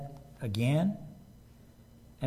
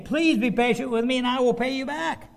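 pleading servant; 8 semitones higher, 4 dB louder than usual. A narrator's reading. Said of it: "begged him".

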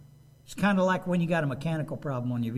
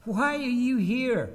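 slow questioning God; 5 semitones higher than usual. Acted. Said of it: "God said".

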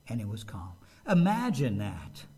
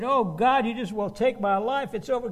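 despairing plea; 5 semitones higher, 3 dB louder than usual. Acted. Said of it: "he said".

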